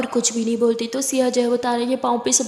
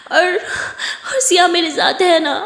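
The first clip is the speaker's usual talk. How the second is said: tearful; 4 semitones higher, slower than usual. Acted. Tara tearful asks family leave.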